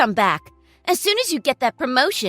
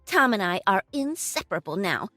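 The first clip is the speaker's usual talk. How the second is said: gloating; 5 semitones higher, 5 dB louder than usual. Acted. Girlfriend gloats over ex-wife.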